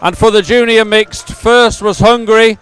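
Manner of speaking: measured, emphatic results read; results announcement. Real, not acted. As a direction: announce each placing clearly to the crowd. Reads out race results.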